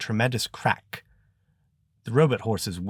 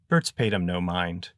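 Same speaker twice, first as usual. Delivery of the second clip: plain reading voice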